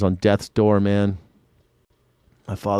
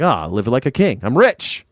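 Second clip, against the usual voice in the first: mock-triumphant outburst; gleeful boast. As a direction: pitch jumps up on "rich". Acting out a delighted mover.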